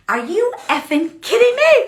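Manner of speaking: high-pitched, exasperated outburst; triggered disbelief. Retold or imitated. Fed-up leader venting about her team, triggered disbelief. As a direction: demand it in indignant disbelief. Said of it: "Just so triggered".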